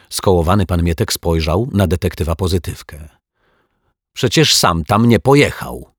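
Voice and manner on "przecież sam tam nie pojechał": louder, higher, a touch of indignation; mildly riled, pushing back; annoyed. Acted. Detective, irritated by the zombie's excuse, speaking up louder. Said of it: "zdenerwował się detektyw Pozytywka".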